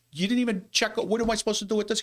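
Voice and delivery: high, exasperated retelling of her own words; incredulous clerk asking what to do; retold exasperation. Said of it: "I goes".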